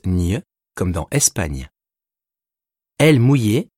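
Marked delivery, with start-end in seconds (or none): 0.1-0.4 "ñ" said as a palatal ny; Spanish ñ sound. Shown as a demonstration. Teacher showing n tilde, "ñ" pronounced ny. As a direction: say "ñ" like the gn in Espagne. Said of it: "qui se prononce ñ".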